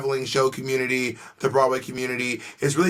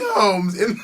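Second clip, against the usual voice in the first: mock shout; 5 semitones higher than usual. Mock rant building to shout.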